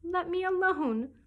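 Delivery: loud, high, drawn-out protest; indignant. A narrator's reading. Alice wants the pigeon to leave her be, indignant. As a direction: push the pigeon away with a slow, indignant cry.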